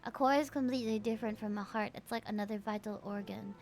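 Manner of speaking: low, soft, quick in-character read; hushed story-game reading; reading game dialogue. Acted. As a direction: read the lines quietly, like a reflective monologue. Reads game dialogue aloud.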